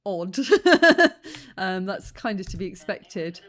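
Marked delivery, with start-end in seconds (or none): 0.4-1.5 loud, high burst of laughter; amused laugh. Real, not acted. Reacting to the clip's confusion, loud amused laugh.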